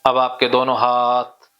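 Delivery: steady, repetitive chant-like suggestions, key words stretched; hypnotic induction. Real, not acted. Hypnotist telling a client the body is loose and heavy, hypnotic drone. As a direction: guide them insistently down toward sleep. Leads hypnosis toward deep sleep.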